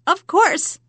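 high, loud hag; sly old witch reply. Acted. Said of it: "replied the hag".

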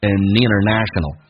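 "an international" as "ə-ninner-national"; "an international" joined, no t; linked words. Shown as a demonstration. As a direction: carry the n of "an" into "international". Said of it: "把in跟international再连音".

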